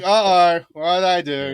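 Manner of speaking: mild mock worry. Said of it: "And I'm like".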